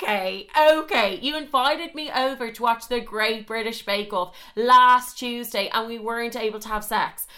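high, indignant retold rant; heated comic tirade, hitting key words hard. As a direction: tell him off with mounting outrage. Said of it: "Oh, we're getting heated".

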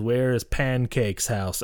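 slow, deliberate delivery of "Pancake's house"; imitating a stilted reading of "Pancake's house"; odd scripted phrasing. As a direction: say "Pancake's house" slowly, as written with its typo. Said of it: "you need to say it like that".

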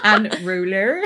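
"ruler" with muddled R's, rising through laughter; struggling to pronounce "ruler". Shown as a demonstration. Failing the word for co-host, laughing muddled "ruler". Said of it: "Can't say it".

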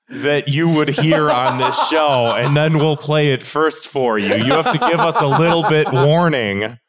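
talking through leftover laughter; after laughing hard. Real, not acted. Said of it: "my cheeks hurt from laughing".

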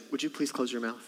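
lightly played polite parent; mock polite request. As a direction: ask nicely through a smile. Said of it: "but you say".

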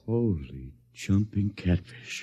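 slow, low, soft astonishment; stunned. Acted. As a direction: let it sink in, dumbfounded. Man learns the invasion is real.

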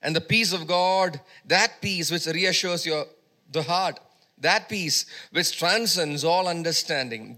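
emphatic preaching. Real, not acted. Preacher assuring the congregation of God's peace, emphatic and measured. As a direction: preach the verse with punched key words.

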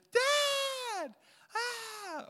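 high shrieking call for Dad; child screaming for dad. Retold or imitated. Frightened child calling dad upstairs, high shriek. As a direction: shriek like a scared kid.

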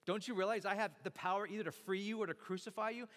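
indignant demand, rising in pitch; acted-out anger, pressing the questions; mock a governor's affronted outburst; angry Pilate. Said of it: "So Pilate gets angry".

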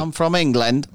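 put-on English accent; mock British accent. Co-host joking about accent study, mock British accent. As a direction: announce it in fake British. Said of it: "talk in just a British accent".

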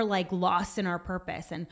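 normal talking voice

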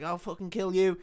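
threatening, but only in the retelling; mock angry threat. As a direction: play the furious vampire lightly. Retold threat before a chase.

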